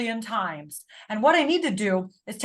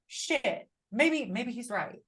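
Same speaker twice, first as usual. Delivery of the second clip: much softer, slowing into a reluctant concession; quiet grudging admission; 6 dB quieter, slower than usual. Retold or imitated. Conceding to herself that her husband was right, quietly and grudgingly. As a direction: mutter it like you hate to admit it. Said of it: "I was like".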